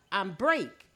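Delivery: "break" standing in for "broke"; Gullah BREAK. Shown as a demonstration. Teacher quizzing audience on the story, Gullah "break". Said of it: "in Gullah, I said".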